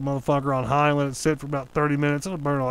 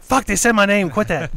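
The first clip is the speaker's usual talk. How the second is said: mock alarm; 6 semitones higher, 6 dB louder than usual. Imagined reaction of annoyed woman.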